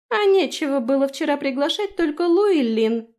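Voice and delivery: sulky fairy comeback; petulant retort. Acted. The fairy throws a jealous jab at Frey, sulky.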